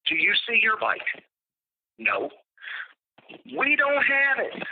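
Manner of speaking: mock innocent denial. Hypothetical innocent shop owner reply.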